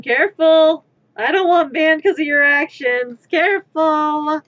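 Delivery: loud, urgent Careful!; warning shout. Retold or imitated. Streamer to the chat, afraid of a ban: loud warning shout. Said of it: "I'm just over here, like, going".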